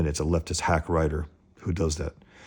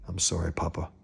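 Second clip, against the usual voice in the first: much softer, shrinking apology; small meek boy; 7 dB quieter than usual. Acted. Chucky apologising to his father, much softer. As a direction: make yourself small. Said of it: "cowed son answering".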